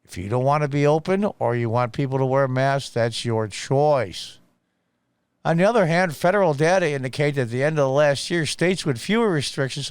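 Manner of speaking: ordinary talk, nothing marked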